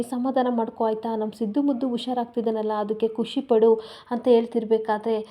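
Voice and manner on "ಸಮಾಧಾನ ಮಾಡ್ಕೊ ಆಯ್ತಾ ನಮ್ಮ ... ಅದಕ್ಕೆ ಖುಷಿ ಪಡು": gently calm her down, lightly voiced; soothing. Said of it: "Sumitra ವಿಮಲನ ನೋಡಿ".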